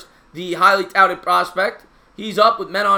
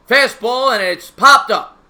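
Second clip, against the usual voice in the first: loud, raised call, stretched at the end; excited play call; 4 semitones higher, 7 dB louder, slower than usual. Real, not acted. Commentator calls Alonso's pop-up live, excited. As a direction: jump on the pitch as it is hit.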